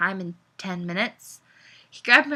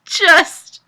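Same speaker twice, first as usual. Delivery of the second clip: laughing; 9 semitones higher, 12 dB louder than usual. Real, not acted. Fit of laughter.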